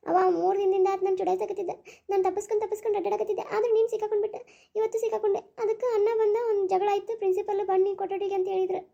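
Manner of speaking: high, tearful recounting. Acted. Upset sister tells family about being harassed at college, tearful. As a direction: pour it out while close to crying. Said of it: "ಅಳ್ಬೇಡ, ಹೋಗು".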